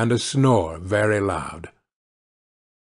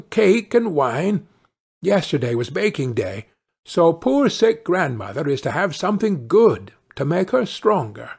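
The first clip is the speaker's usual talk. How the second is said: lightly voiced storybook girl; a hint of a girl's lilt; polite little girl; 4 semitones higher than usual. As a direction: answer helpfully as a well-behaved child. Girl answers the wolf.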